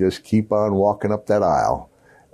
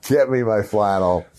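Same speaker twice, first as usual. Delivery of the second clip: normal talking voice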